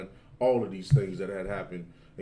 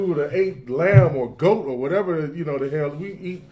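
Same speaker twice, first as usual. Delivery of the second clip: higher, eager Laban describing the feast; lightly voiced festive Laban; Laban on the party; 5 semitones higher, 6 dB louder than usual. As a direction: sell the celebration he missed. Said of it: "He's basically saying".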